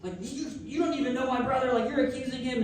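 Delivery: mock outraged telling-off; retold reaming-out. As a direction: lay into them on a big sister's behalf. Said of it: "just reaming the V P".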